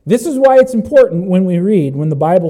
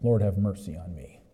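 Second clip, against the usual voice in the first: hushed plea; 12 semitones lower, 13 dB quieter than usual. Acted. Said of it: "you would be crying out".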